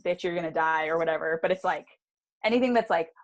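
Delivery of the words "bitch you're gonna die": mock dramatic inscription. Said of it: "it says in Latin".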